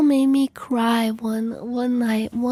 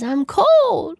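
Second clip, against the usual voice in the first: lightly voiced wailing cat; cat imitation. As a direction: mimic a bathing cat's cry. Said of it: "taking a bath and it says".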